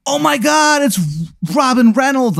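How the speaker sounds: very high, thrilled gasp of recognition; starstruck crowd. Acted. The inmates recognise Robin Reynolds, very high and thrilled. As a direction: squeal a celebrity's name.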